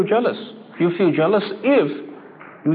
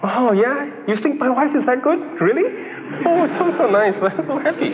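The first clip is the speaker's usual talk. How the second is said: higher, gushing mock delight, laughing at the end; delighted husband; 5 semitones higher than usual. A husband hearing his wife praised, in hammed-up delight. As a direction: beam with pride over the compliment.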